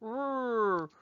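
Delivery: "R" as a long front-of-mouth rrr; English R. Shown as a demonstration. Teacher shows where our R sits, long English "R". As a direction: hold "R" as a drawn-out English er. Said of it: "Our R is right at the front".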